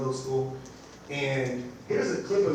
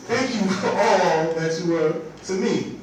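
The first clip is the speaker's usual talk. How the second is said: louder and slower, moved to tears; getting emotional; 3 semitones higher, 5 dB louder, slower than usual. Real, not acted. Teacher rereading a former student's thank-you, choked up. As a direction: let the thanks catch in your voice as it touches you. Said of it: "See, I'm getting emotional right now".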